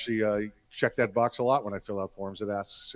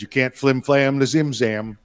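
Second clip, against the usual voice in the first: mock catchphrase; 7 dB louder, slower than usual. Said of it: "he says".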